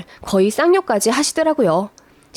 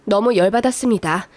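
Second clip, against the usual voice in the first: ordinary delivery, nothing marked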